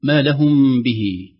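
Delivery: ما لهم به drawn out slowly; slow recitation. Shown as a demonstration. Teacher slowly reciting ما لهم به. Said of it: "أيضًا".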